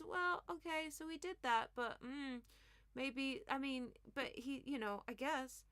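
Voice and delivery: a hint of hesitant, mumbling Starmer; mock Starmer dither. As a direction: play a limp, hedging politician. Mocking Starmer's spineless reply.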